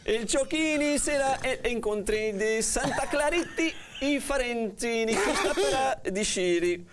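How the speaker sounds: hammed-up fake Italian accent; playful cod Italian; jolly italian pizza chef. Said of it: "o castigo é falar em sotaque italiano".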